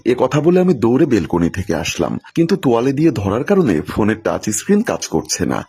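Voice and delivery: plain reading voice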